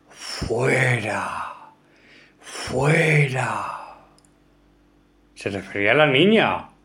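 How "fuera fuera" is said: quieter, put-on menacing, somewhat whispered tone. Quoting a recorded psychophony aloud, in a mock-menacing half-whisper. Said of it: "decía en un tono amenazante y algo susurrante".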